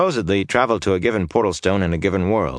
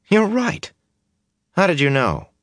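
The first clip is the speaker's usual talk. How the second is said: pitched way up in astonishment; surprised; 12 semitones higher than usual. A narrator's reading. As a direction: blink and blurt it out. Mat sees the coin matches.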